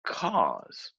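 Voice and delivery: "cause." set apart by a pause, drawn out; stress on CAUSE. Shown as a demonstration. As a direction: isolate "cause." as the key word. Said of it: "I'm gonna emphasize that word there".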